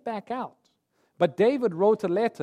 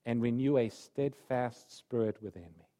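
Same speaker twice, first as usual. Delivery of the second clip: slow, a touch softer prayer of remorse; repentant plea; 4 semitones lower, 4 dB quieter than usual. Acted. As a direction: pray it slowly, heavy with regret. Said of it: "he cries out to God".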